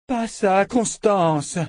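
high, urgent shouted command; crying out. A narrator's reading. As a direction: shout to stop a colleague at once. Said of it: "cria Dana en se levant".

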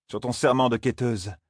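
a hint of solemn command, serment stressed; Moiraine dictating the oath. Moiraine imposing the oath on Zarine, lightly voiced and solemn.

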